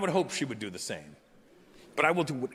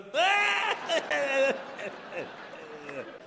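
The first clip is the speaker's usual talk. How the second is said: high shrieking giggle; 11 semitones higher than usual. Retold or imitated. Plumbers giggle at their client's name, a high shrieking giggle. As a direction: cackle like a little kid. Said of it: "giggle like little kids".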